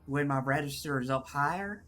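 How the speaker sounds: measured, put-on Southern accent. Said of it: "harder to get into the southernisms".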